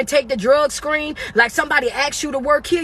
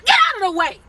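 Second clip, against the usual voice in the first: exasperated shout; 7 semitones higher than usual. Acted. Shouting at latecomer.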